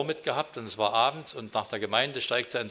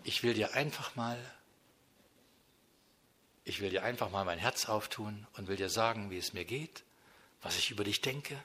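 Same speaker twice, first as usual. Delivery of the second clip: soft, heartfelt prayer to God, much softer; quiet sincere prayer spoken straight to God; intimate prayer; 3 semitones lower, 5 dB quieter than usual. Pretend. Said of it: "und sagt".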